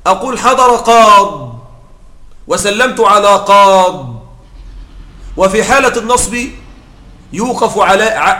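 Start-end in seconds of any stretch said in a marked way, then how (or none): 0.4-4.2 slow, stressed "حضر قاض" ending in a bare silent consonant; pausal form without ya. Shown as a demonstration. Teacher demonstrating to students, slow and deliberate. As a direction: drop the final ya of "قاض" and stop on a still d. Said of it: "تقف بتسكين مع حذف الياء".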